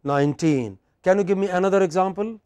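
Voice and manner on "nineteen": put-on nineteen with the stress on -teen; stress on final syllable. Shown as a demonstration. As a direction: lean on the last syllable of nineteen. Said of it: "where stress is on the".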